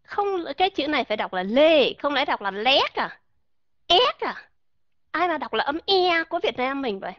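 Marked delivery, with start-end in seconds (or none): 0.0-4.5 mock doubting critic, rising at the end; quoting people who say it wrong; imitating a critic. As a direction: play a scoffing know-it-all. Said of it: "Nghe kỹ".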